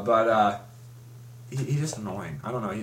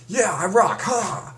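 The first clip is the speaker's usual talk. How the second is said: higher, louder cocky boast; cocky hero voice; 8 semitones higher, 3 dB louder, slower than usual. Retold or imitated. Mocking the hero, a high cocky brag. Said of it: "But he's like".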